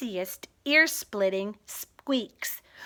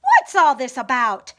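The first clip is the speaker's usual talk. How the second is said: louder curious call; shouting; 6 dB louder than usual. Acted. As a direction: call out from the crowd. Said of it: "the people came shouting".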